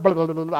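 quick burbling of a boiling pot; imitated bubbling noise. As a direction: mimic a pot bubbling over. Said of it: "I heard this noise".

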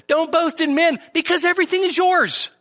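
high triumphant line ending on yours; emphatic proclamation. Acted. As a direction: lift the whole line and land on yours. Quoting Paul triumphantly.

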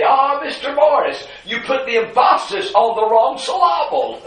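"emphasis" and "syllable" wrongly stressed on their second syllables, high-pitched; mock-correct with em-PHA-sis and syl-LA-ble; professor's joke mispronunciation. Greek professor correcting a student's pronunciation, jokingly misplacing the stress in "emphasis" and "syllable". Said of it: "when we'd not pronounce a Greek word right".

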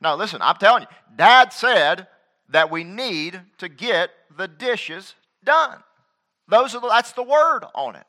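put-on a kid laying down the law; lightly voiced bossy sister; girl insisting. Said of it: "The girl said".

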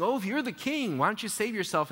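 high sneering taunt. Retold or imitated. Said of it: "They're making fun of him".

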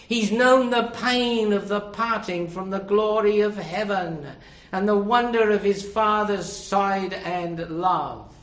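high, sustained preaching voice, swelling in force; impassioned preaching. Real, not acted. Preacher telling the congregation what the incarnation cost, impassioned preaching.

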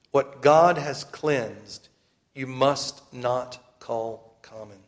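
very slow, weighty proclamation; preaching. Acted. Preacher pressing the command on brothers and sisters, slow and grave. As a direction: drive the verse home word by word.

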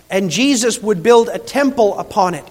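emphatic sermon climax, building in force; impassioned preaching. Real, not acted. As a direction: proclaim it to the congregation with conviction.

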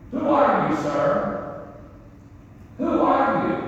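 high, sarcastic challenge. Retold or imitated. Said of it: "Almost sarcastic".

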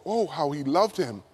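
low, soft, tender reading; hushed wonder. Acted. Preacher rereads what the mourners said, hushed wonder. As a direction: breathe out the verse in quiet awe.

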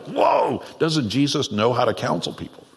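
mock shock. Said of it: "You're like".

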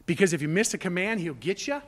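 quick, questioning guess at the wrong reason; mock question. Preacher voicing the wrong reason to obey, quick mock question. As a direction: toss it out fast as a doubtful question.

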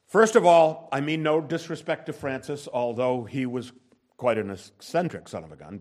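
normal talking voice

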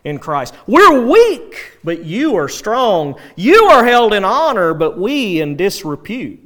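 mildly mock their grandeur, punching each opening; Paul's sarcasm. Paul contrasting himself with proud Corinthians, mildly sarcastic. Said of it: "the sarcasm that Paul can use".

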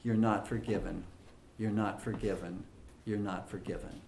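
a hint of a quiet, insistent whisper of accusation; Satan whispering. Preacher voicing Satan whispering to Christians, softly fading. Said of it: "Satan whispering in their minds and in their ears".

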